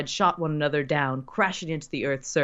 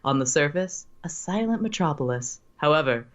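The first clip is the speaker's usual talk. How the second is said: narrator voice. Acted. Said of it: "put on your, your best narrator voice".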